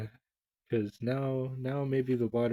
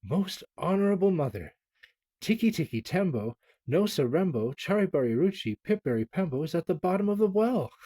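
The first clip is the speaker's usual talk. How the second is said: slowly; 7 semitones higher, 4 dB louder than usual. A narrator's reading. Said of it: "and slowly, very slowly said".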